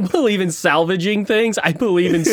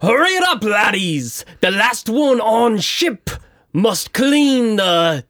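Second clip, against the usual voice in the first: yelling; 4 semitones higher, slower than usual. Acted. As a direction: holler it across the water. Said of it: "as I yell out towards all".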